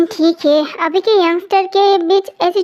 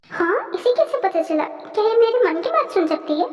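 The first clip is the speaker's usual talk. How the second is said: inner thought, soft; 6 dB quieter than usual. Acted. His private thought, mind read.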